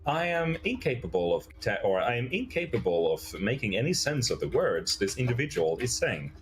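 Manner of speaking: measured, swooping robot report; stilted, formal machine announcement; robot Adam. Acted. Robot reports an anomaly to the group, mechanically stilted.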